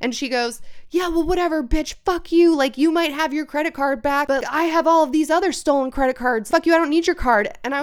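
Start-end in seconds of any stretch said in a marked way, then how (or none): 0.9-7.5 mocking defiance. Thief retorts defiantly.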